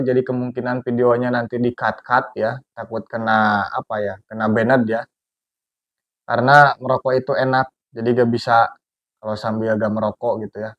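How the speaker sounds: talking around a cigarette; words through a cigarette held in the lips; cigarette in mouth. Real, not acted. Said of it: "saya biasa sambil merokok".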